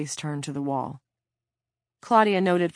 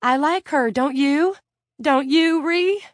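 high, loud anxious questions; desperate pleading; 11 semitones higher, 8 dB louder than usual. A narrator's reading. Claudia to her cellmate, near tears, desperate pleading. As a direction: beg for an answer, voice climbing.

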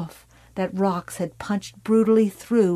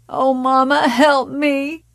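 high, loud cry for help; a terrified plea to her mother; 6 semitones higher, 5 dB louder than usual. Acted. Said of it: "Carrie cried out".

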